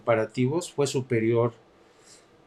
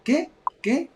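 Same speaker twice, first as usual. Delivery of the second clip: imitando a Trump; 8 semitones higher, slower than usual. Retold or imitated. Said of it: "se quedaba Trump diciendo".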